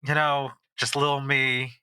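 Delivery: a hint of a sly, charming hustler; smooth-talking smuggler. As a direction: sweet-talk an old friend for a favor. Plays NPC Broxton.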